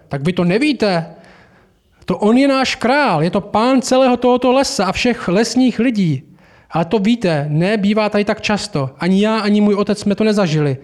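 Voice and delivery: proud beaver bursting with news; eager Mr Beaver. Acted. Mr Beaver tells the children.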